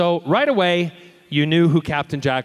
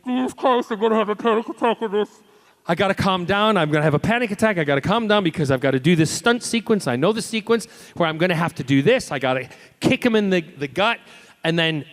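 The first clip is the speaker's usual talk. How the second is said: higher, fast anxious self-talk; panicking inside; 3 semitones higher than usual. Retold or imitated. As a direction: rush it like a panic attack is coming. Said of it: "and I was like".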